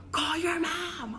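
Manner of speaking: slow stern command, a hint of dad; slow stern dad order. Dad ordering his daughter to call her mom, slow and stern. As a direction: draw it out like a firm dad. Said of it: "you know how guys talk to people like this".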